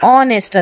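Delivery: ಆನೆಸ್ಟ್ starting straight on the open vowel; silent H. Shown as a demonstration. Teacher telling learners how to pronounce honest, ಆನೆಸ್ಟ್ with silent H. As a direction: drop the H entirely in ಆನೆಸ್ಟ್. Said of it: "ಎಚ್ silent ಇದೆ".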